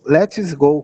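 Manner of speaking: "go" pronounced as Portuguese "gol". Shown as a demonstration. Teacher shows students "let's go", with "go" said like "gol". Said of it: "como se você tivesse feito um dom".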